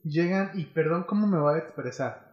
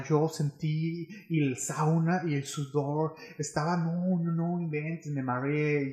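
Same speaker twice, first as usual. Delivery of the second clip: voz de fresa; slower than usual. Retold or imitated. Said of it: "agreguen aquí en su mente voz de fresa".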